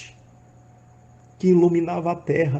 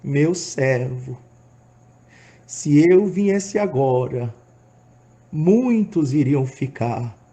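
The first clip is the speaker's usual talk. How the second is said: voice of God; slower than usual. Retold or imitated. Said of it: "o Senhor fala dessa maneira".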